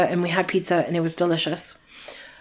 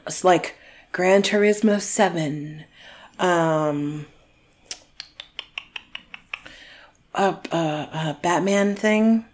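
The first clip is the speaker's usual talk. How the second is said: whispering; 2 semitones lower, 6 dB quieter, slower than usual. Real, not acted. Whispering gift list near fiancé.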